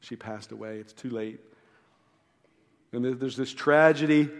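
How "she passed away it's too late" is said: hushed, much softer whisper of bad news. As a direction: lean in close and breathe the news softly. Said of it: "pulls Jairus aside and whispers in his ear".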